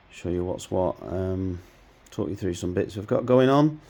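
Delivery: hoarse voice from a cold; croaky, strained voice while ill. Real, not acted. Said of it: "excuse my croaky voice".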